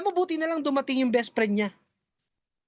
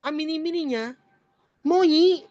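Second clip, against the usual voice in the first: ngongo voice; 4 semitones higher than usual. Acted. Friend answering in ngongo.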